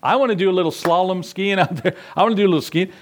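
high-pitched mock eagerness; imitating a cocky, excited request. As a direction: play an overeager Peter asking to join in. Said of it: "got a little cocky and excited and said".

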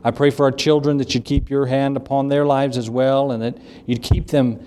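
even-toned closing prayer; earnest, level address to God; public prayer. Real, not acted. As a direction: pray aloud steadily for the congregation. Closes the service in prayer.

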